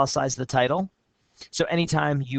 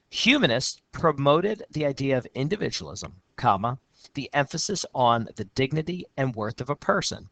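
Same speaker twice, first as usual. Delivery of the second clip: steady reading of a student's essay; essay read aloud. Shown as a demonstration. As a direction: read the student's lines out clearly.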